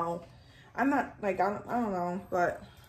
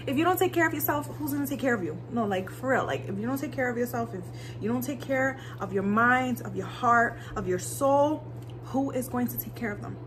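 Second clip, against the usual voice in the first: earnest, higher motivational plea; caring pep talk; 3 semitones higher than usual. Real, not acted. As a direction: preach self-care with heart. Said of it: "I'm talking like this".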